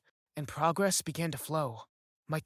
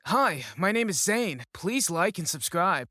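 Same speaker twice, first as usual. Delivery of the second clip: louder, lifted cheerful greeting; upbeat intro; 2 semitones higher, 6 dB louder than usual. Acted. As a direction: greet the viewers brightly and loudly. Narrator greets viewers as Zane.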